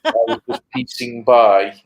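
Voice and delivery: mangled-vowel mock French-English accent; comic French-English mispronunciation; policeman from 'Allo 'Allo. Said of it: "the policeman from Hello, Hello".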